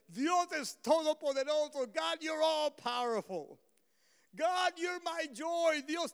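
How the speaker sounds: loud, joyful praise declarations; ringing shouts of praise; shouted praise. Retold or imitated. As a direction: call out praise to God. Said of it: "si estamos gritando y clamando alabanza".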